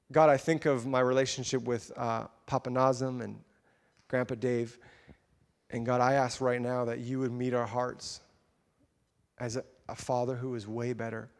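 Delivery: measured, earnest closing prayer; public prayer. Real, not acted. Preacher praying to God over the congregation, measured and earnest. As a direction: pray unhurriedly, pausing between phrases.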